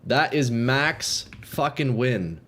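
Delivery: frat bro. Real, not acted. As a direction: lose it over a max win. Huge lucky corrupt, hype reaction.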